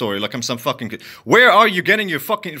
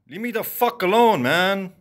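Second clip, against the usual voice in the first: raised, pitched-up frustrated plea; exasperated shout of leave me alone; angry outburst; 4 semitones higher than usual. Real, not acted. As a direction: snap it out, fed up with them. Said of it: "an angry rant".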